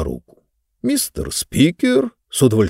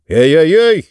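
startled yelp; 5 semitones higher, 6 dB louder than usual. Acted. Hammy yelps at bite.

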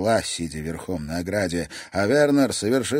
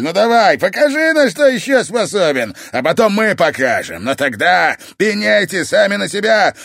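taunting shout; 10 semitones higher, 9 dB louder than usual. Acted. Mikel taunting, challenge.

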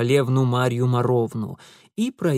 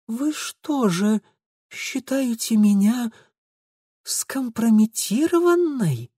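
ominous calm; 9 semitones higher, slower than usual. A narrator's reading. Lidia's ominous soft question.

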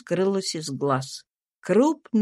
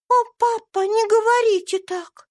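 put-on gentle pleading girl; 4 dB louder than usual. A narrator's reading. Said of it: "попросила Ева, тихонько". (тихая детская просьба)

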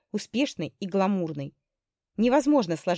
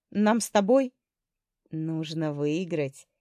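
soft; slower than usual. Acted. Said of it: "мягко сказал он".

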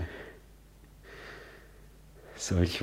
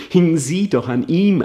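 anguished outburst; 8 semitones higher, 8 dB louder than usual. Acted. Soliloquy, anguish rising.

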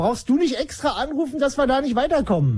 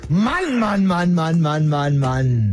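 genervtes Stöhnen; 7 semitones lower, much slower than usual. Real, not acted. Exasperated sighs falling.

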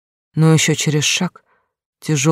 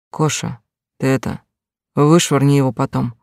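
put-on drunken husband slurring orders; slurred drunk voice; town drunk. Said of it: "раздался снова пьяный голос мужа".

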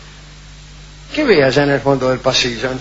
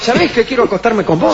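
1930s cartoon; 6 semitones higher than usual. Shown as a demonstration. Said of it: "con voz de dibujo animado".

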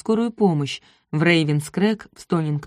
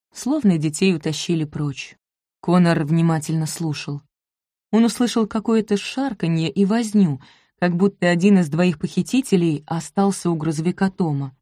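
ordinary delivery, nothing marked

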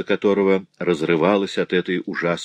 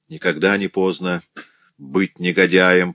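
cold fury. Acted. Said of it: "произнесла мать с холодным бешенством".

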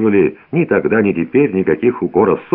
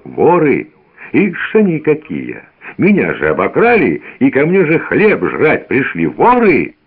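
frenzied shouting; 6 semitones higher than usual. A narrator's reading. Evdokim frenzied, shouting at the old men. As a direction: rage at the guests. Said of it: "иступлённо кричал".

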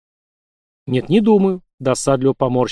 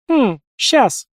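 much higher mocking snort; snorting scoff; 10 semitones higher than usual. A narrator's reading. Nurse brushing off flirting patients, snorting scoff. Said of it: "фыркнула медсестра".

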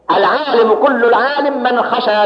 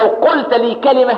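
angry stranger; 5 semitones higher than usual. Retold or imitated. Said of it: "بيقول له".

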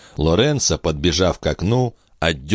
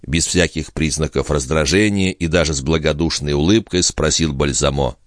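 ordinary delivery

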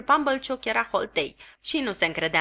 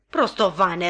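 a mildly louder roar of an insult; bellowing; 4 dB louder, slower than usual. Acted. Sister bawling an insult at Joe, louder. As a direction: bawl at him. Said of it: "răgni sora mea".

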